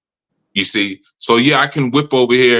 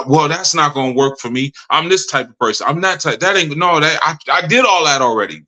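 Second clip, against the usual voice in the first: imitated protest, pitch climbing higher; mock know-it-all objection; defensive pushback; 5 semitones higher than usual. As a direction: push back like someone who won't be told. Acting out a resistant student's pushback.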